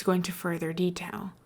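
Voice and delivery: secretive hush; whispered. Acted. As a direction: lean in and whisper it. Scar drops to a whisper.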